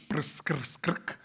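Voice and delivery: prs, kr, skrk said slowly with no vowels; Czech clusters. Shown as a demonstration. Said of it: "in Czech".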